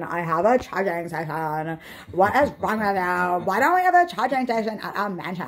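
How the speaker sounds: put-on whiny, entitled rich girl; spoiled rich girl voice. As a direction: whine it like a pampered heiress.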